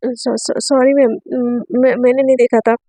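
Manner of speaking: stammering, halting apology; nervous stammer. Acted. Student apologising to her teacher, stammering nervously. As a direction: trip over the words, scared.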